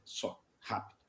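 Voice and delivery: whispered request; low breathy hurry; hushed aside. Retold or imitated. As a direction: supervisor quietly asking secretary for two minutes. Supervisor asking for privacy.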